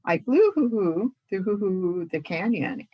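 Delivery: words broken by owl hoots; hooting stutter. Acted. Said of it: "How you stutter".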